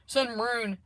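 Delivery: laugh, then imitate a Southern accent; mock Southern accent. Tarot reader playing with her own words, mock Southern accent. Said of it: "is that the Houston accent".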